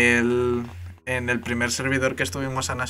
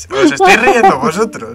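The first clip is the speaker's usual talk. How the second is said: laughing; 12 dB louder than usual. Real, not acted. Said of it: "Me estoy aguantando la risa".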